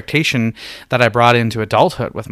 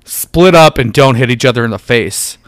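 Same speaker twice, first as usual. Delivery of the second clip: gym teacher voice; 5 dB louder than usual. Acted. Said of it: "like a lesbian gym teacher".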